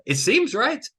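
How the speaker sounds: It seems said high and sweet, the word seems lifted way up; sing-song mock. Shown as a demonstration. Mocking the tempting wrong idea to trial lawyers, high sing-song. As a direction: coax it out high like the obvious right move. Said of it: "see, this is where your brain".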